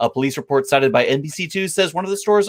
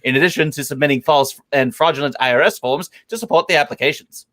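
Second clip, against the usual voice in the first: radio voice. Shown as a demonstration. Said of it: "I'm doing this one in radio voice".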